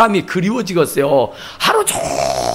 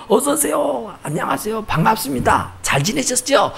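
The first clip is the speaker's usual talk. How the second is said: lightly voiced chirpy welcome, higher and soft; greeter; 4 semitones higher, 6 dB quieter than usual. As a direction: imitate ushers greeting churchgoers. 안내원들의 인사를 흉내 냄. (안내원처럼 살짝 높은 목소리로 인사)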